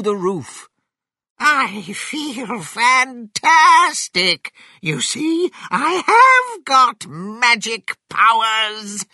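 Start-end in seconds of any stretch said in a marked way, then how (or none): 1.4-9.1 high, loud, triumphant crowing; exultant, stretched-out shout; boastful Grandma. A narrator's reading. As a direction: boast at the top of your voice. Giant Grandma boasts from roof.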